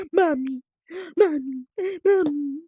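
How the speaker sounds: terrified horror victim. Pretend. Crying for mommy in fear.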